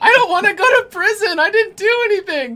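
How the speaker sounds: very loud, very high-pitched sobbing, wailing. Narrating a scene, voicing a woman who just starts bawling: sobbing. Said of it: "she just starts bawling".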